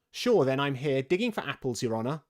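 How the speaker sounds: lightly voiced servant answering his master; hint of a deferential workman; Pat the servant. A narrator's reading. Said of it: "a voice she had never heard before".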